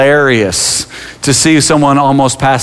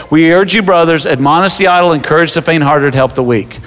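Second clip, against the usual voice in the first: scripture reading; 4 semitones higher than usual. Shown as a demonstration. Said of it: "Look what the scripture says".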